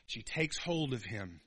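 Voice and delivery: normal talking voice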